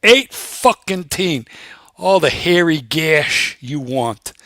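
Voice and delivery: slow, emphatic imitated factory man; retold anger. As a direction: draw out each word in mock exasperation. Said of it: "He's starting to get angry now".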